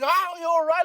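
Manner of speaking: high, loud mock-worried wife voice; imitating wife. Wife startled by husband's scream, high concerned voice. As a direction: play the startled wife checking on him.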